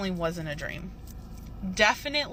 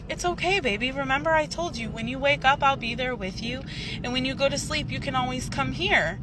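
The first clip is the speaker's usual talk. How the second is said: lightly acted reassurance, pitched higher; higher-voiced, mild soothing; reassuring dad; 5 semitones higher than usual. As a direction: retell a father comforting his child. Dad reassures her in retold dream.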